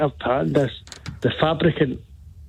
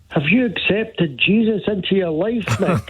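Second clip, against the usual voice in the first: preacher; 4 semitones higher than usual. Acted. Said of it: "a better Scottish accent".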